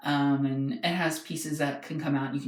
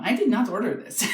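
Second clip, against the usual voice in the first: mock Russian accent, pitched up and louder; imitating Russian accent; 7 semitones higher, 6 dB louder than usual. Russian neighbour disowning the parcel, in a hammed-up Russian accent. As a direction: play the Russian neighbour saying it wasn't his order. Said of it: "in his accent and everything".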